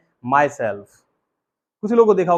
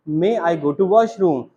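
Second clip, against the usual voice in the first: patient teacher; much slower than usual. Retold or imitated. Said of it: "ma'am ने समझाया".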